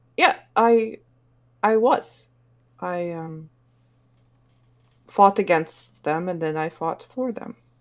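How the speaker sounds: startled, slow, halting, caught-off-guard delivery. Voicing a character who blurts out she was there: startled, caught off guard. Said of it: "she looks like she's almost startled to have said that".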